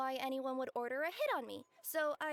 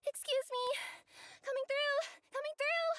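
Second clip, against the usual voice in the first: calling out; 10 semitones higher than usual. Acted. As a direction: shout ahead so people step aside. Courier rushing in through crowd.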